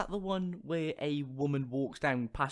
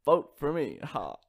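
halting politician with pauses; a loose, half-hearted presidential impression; hesitant speech, long gaps between phrases; Barack Obama; 5 semitones lower, slower than usual. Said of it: "Barack Obama impression".

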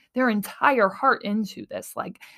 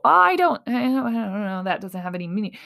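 dismissive doubter; faster than usual. Acted. Listener shrugging off synchronicities, dismissive.

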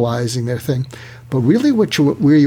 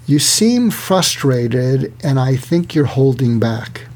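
slow, deliberate, non-escalating delivery; calm, measured response; slower than usual. Shown as a demonstration. Coach models answering someone who vented, calm and slow. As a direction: say it slowly and evenly, without anger. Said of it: "instead of getting angry at them, you pause".

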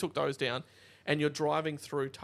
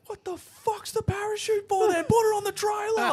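high, loud mocking bogan; mocking heckler; 8 dB louder than usual. Spectator mocks the parachute car, high loud jeer. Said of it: "He's like".

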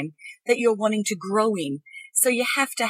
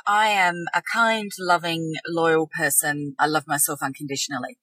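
flat, unconvinced affirmation; 4 semitones lower than usual. Shown as a demonstration. Reading an affirmation she doesn't believe yet, flatly. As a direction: say it like you don't believe a word. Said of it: "demonstrates a disbelieving affirmation".

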